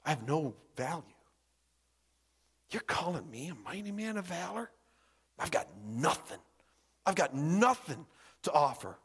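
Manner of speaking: subdued, halting Gideon; acted worthlessness. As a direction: let each admission drop away softly. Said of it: "Gideon sees himself as worthless".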